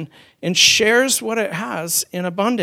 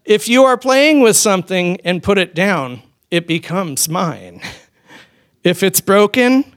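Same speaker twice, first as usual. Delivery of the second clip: put-on toddler's battle cry; 3 semitones higher, 6 dB louder than usual. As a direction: shout it like a greedy toddler claiming everything. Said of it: "this is their battle cry".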